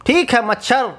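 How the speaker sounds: a hint of a royal lion; lightly voiced lion king. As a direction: grant the wish like a pleased king. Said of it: "बोले महाराजा शेर सिंह".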